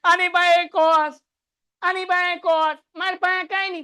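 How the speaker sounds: a hammed-up whiny wail from the term that has no cos; mock crying. Mock sob, short of a cos, for students. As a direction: play the left-out term crying to the class. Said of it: "રોવા માંડે".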